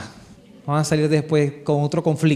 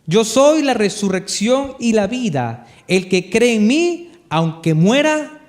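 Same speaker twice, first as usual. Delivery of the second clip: solemn proclamation; slower than usual. Acted. Proclaims Jesus' words.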